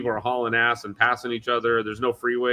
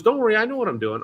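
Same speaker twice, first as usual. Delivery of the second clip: mock Tim; 11 semitones higher, 4 dB louder, faster than usual. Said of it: "He goes".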